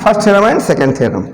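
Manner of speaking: slow dictation. Shown as a demonstration. Teacher dictating theorem names.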